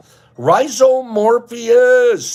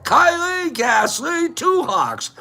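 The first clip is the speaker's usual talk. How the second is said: a high, slow shouted name; high happy holler of a viewer's name; excited shout; 8 semitones higher than usual. Real, not acted. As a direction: call the name out with a burst of delight.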